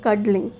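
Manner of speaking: "cuddling" said carefully as a model word; pronunciation model. Shown as a demonstration. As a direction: model how "cuddling" is pronounced for children. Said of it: "you have to pronounce it as".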